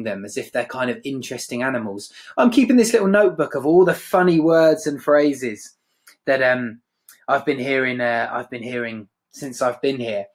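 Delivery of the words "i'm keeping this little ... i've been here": patronising. Acted. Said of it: "sounds like a sort of zoologist".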